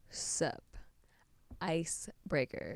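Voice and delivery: slow, quiet radio call sign; drawn out call sign over the radio; over walkie talkie. Pretend.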